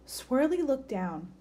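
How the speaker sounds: put-on lively picture-book read-aloud for kids; story reading. A narrator's reading. Teacher reading a bird story to children, lively. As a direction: read it like story time for a class.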